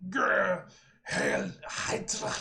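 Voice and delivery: slow, breathy whisper; slow villain whisper; whispered oath. Acted. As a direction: hiss the words out slowly like a fanatic.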